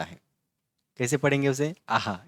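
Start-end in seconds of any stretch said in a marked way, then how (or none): 1.9-2.2 "आहा" with an echoed h syllable after the vowel; visarga reading. Shown as a demonstration. Teacher showing how visarga is read, "आहा" ending in h. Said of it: "इस तरीके से पढ़ते हैं".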